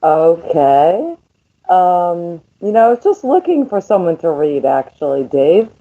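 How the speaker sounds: muffled, far from the mic. Real, not acted. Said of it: "you're sounding, like, really muffled".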